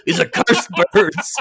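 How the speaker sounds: slow, hushed grumbling curse; hushed mock-menace at chirping birds; mock villain whisper. Mocking villain line at birds.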